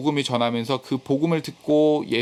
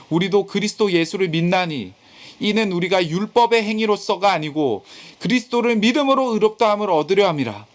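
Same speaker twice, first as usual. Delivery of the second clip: declamatory Bible reading, building in force; scripture reading; 3 semitones higher than usual. Acted. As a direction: read the verse out firmly, rising toward the end. Reads scripture aloud to congregation.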